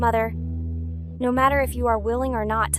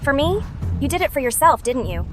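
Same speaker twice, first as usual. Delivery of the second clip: raised, bitter accusation; angry accusation; 3 semitones higher than usual. Acted. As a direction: accuse her with scorn. Accusing the scheming mother.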